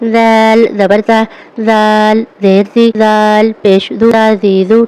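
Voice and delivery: soft, light ذ in ز زی زو. Shown as a demonstration. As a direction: let the ذ of زی come out gently. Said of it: "اس کو نرمی سے پڑھنا ہے".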